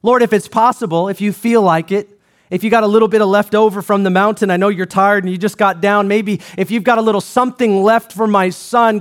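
lightly voiced weary father, half-hearted plea; a hint of a tired dad who expects nothing; doubting father. Father begging Jesus for his son, mildly doubtful. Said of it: "why would he talk like this?".

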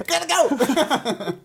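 slow goofy voice. Acted. Voicing fleeing pancake.

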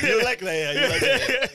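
high, loud laughing tease; laughing as he teases his friend; teasing laugh. Real, not acted. Teasing his friend about the hair, laughing.

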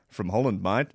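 put-on Dutchman mistakenly given an Australian accent; light attempt at Dutch that comes out Australian; imitated Australian accent. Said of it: "No, that's an Australian accent".

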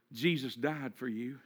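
low, soft and unhurried; a small voice from the darkness; hushed, gentle delivery; little voice. Acted. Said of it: "you hear a little voice".

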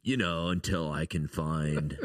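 lazy surfer-bro American voice; American surfer accent. Pretend. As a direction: keep the chill dude voice going. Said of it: "now I'm gonna talk like this".

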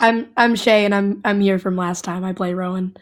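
hoarse from a cold; rough, worn voice. Real, not acted. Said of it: "Sorry about my voice".

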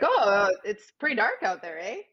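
demonstrated Canadian small talk ending on "eh"; hardcore Canadian "eh". Shown as a demonstration. Guest showing host how Canadians say eh, Canadian accent. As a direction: play up a Canadian accent with a questioning "eh". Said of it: "hardcore Canadians that do say "a".

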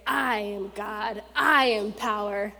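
preacher lightly voicing God; mock God proclamation. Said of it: "come down and say".

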